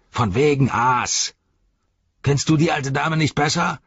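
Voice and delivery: lightly voiced orc captain, rising to indignation; scolding orc. Voices Shagrat scolding Gorbak.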